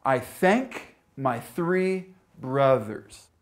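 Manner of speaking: "I thank my three brothers" slowly, each th distinct; careful th demonstration. Shown as a demonstration. Teacher reads learners a test sentence, "I thank my three brothers", slow careful th. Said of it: "Here it is again".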